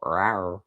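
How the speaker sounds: small, understated pretend roar; a half-hearted big-cat "rawr"; mock roar. Roars for the cat figure.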